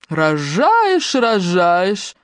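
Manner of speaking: a sneering parody of the last words, a touch nasty; nasty mocking mimicry. A narrator's reading. Белла lightly mocking Мотя's words in a nasty voice. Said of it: "передразнила Белла противным голосом".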